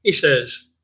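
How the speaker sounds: ordinary talk, nothing marked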